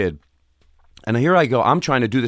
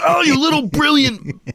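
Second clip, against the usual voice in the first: laughing through the words, higher, in real admiration; laughing delight; 10 semitones higher, 3 dB louder, slower than usual. Real, not acted. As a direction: laugh as you praise him, pitched up and delighted.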